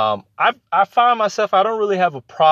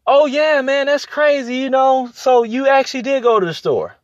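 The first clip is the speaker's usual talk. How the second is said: half-asleep echo reply; 9 semitones higher than usual. Retold or imitated. Imitating himself half asleep, replying to a friend's story. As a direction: parrot back their story on autopilot, pitched up. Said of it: "So I'll be like".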